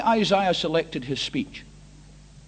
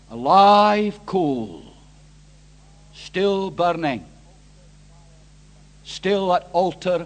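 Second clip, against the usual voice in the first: measured storytelling with long pauses; solemn scripture reading; 2 semitones lower, 3 dB louder, slower than usual. A narrator's reading. Preacher reading Isaiah's vision of the coal, solemn measured recitation.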